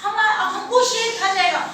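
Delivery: high, quacking duck voice. Acted. Duck panics seeing rabbit back, alarmed quacking. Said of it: "duck ने कहा".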